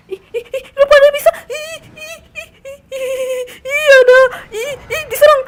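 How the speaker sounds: high scared squealing ih ih; high-pitched frightened ih sounds; frightened squeals. Real, not acted. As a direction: squeal in panic at the creatures. Attacked by creatures, squealing.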